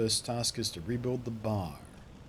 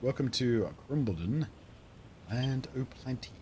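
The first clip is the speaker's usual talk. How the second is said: lightly voiced rustic local; a hint of wistful character voice; game townsperson guide. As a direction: show a newcomer round the faded town.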